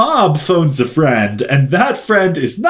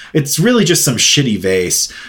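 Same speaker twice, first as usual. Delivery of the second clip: ordinary talk, nothing marked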